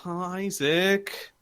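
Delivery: lightly acted reluctant whine; touch of childish grumbling, pitch swooping up; mild whiny protest. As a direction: drag out the complaint a little. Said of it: "she's like".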